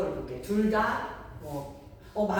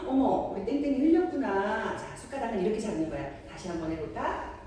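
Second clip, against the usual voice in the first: gentle, encouraging parent; 3 semitones higher than usual. Acted. Parent showing child how to hold the spoon, gentle. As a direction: coax a small child kindly. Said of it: "벌써 저희 톤부터가 좀 달라졌죠".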